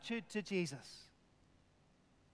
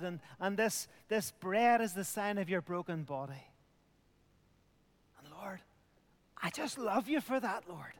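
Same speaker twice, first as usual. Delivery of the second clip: heartfelt prayer. Shown as a demonstration. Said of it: "just to say".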